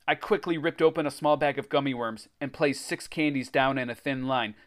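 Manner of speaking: animated adventure storytelling; story narration. A narrator's reading. Reader tells of racing to the beach, story narration. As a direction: read it like a kids' adventure book.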